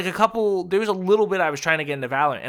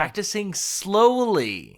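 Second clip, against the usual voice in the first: slow, deliberate teacher voice; kindergarten teacher voice; 4 semitones higher, much slower than usual. Real, not acted. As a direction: spell it out like a patient teacher. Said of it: "I'm saying this in, like, my teacher voice now".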